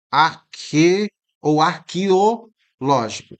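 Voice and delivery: arque- then arqueológico, syllables split slowly; arqueológico drawn out syllable by syllable; two variants. Shown as a demonstration. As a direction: say arqueológico slowly, both ways. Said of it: "vamos fazer as duas variantes".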